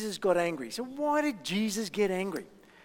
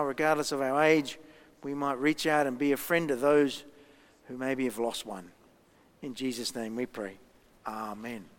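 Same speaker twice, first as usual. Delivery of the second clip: measured prayer, sinking lower toward the amen; 3 semitones lower than usual. Real, not acted. Minister praying with the congregation for those left out, measured prayer.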